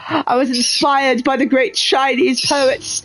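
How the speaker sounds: British accent, mock-earnest letter sign-off. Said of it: "read this in the British accent".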